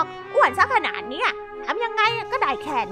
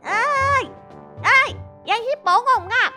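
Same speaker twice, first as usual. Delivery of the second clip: irritated shout; 8 semitones higher than usual. Acted. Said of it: "เมียแคสได้ตะโกนใส่ด้วยความหงุดหงิด".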